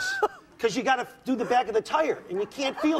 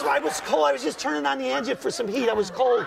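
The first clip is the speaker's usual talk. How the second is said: wife. Retold or imitated. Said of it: "She goes".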